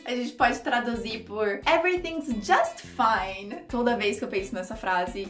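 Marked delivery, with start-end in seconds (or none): 1.6-3.5 slow, stretched false reassurance; sarcastic. Shown as a demonstration. Teacher translating the phrase for learners, sarcastic. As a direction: draw out "just fine" insincerely. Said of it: "ela vem já com sarcasmo".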